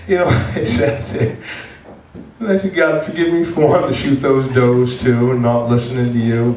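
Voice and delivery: high, strained voice overcome by real emotion; choked up. Real, not acted. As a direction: push the prayer out through rising tears. Overcome while recalling his prayer.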